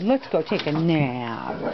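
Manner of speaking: slow, low, soothing voice. Real, not acted. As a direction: lull a tired puppy. Soothing tired dog.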